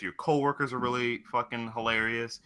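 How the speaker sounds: ordinary talk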